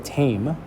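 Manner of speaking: "tame" stretched as a stressed syllable; long, held "tame"; drawn out. Shown as a demonstration. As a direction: linger on the vowel of "tame". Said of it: "it's a little bit drawn out".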